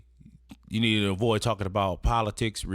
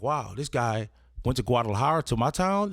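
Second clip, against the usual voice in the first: impressed surprise; 2 semitones higher than usual. Acted. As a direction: play someone tickled by the coincidence. Acted impressed reaction of the stranger.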